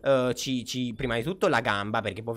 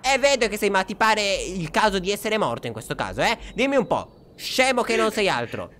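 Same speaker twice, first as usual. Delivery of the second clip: high-pitched indignant telling-off; exasperated scolding; 7 semitones higher, 3 dB louder than usual. Real, not acted. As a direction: berate him, drawing out the insult. Rimprovera il nonno con insulto. (rimprovero indignato, con voce acuta)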